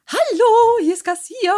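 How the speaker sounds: high, tight, rushed hello; tense high phone voice. Shown as a demonstration. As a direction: answer the phone stressed and high. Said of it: "nicht sofort einatmen".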